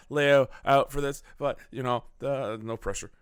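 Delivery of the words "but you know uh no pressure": lightly imitated halting delivery with filler sounds; a hint of a hesitant, low-key celebrity impression; Jeff Goldblum. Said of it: "I went to Jeff Goldblum right there".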